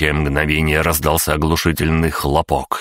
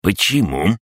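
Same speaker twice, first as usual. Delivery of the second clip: high, puzzled crab voice; 5 semitones higher than usual. Acted. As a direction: ask it like the baffled crab. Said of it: "изумился крабогном".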